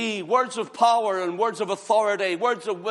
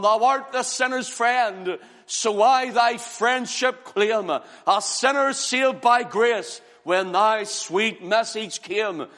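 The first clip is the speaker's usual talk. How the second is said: slow hymn recitation; slower than usual. Acted.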